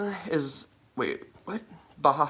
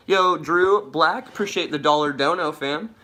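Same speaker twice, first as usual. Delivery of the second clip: hyped shoutout; 4 semitones higher, 5 dB louder than usual. Real, not acted.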